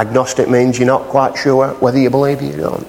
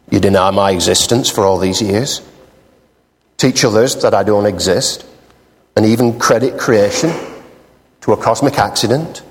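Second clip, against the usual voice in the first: voice from the sky; 6 semitones lower than usual. Acted. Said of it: "a voice came out of the sky".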